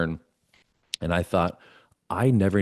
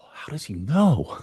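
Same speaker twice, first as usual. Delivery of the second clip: drawn-out, high mock protest; mock indignant; 7 semitones higher, slower than usual. Reacting to mentor being right, mock indignant. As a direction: stretch it out high, playing caught out.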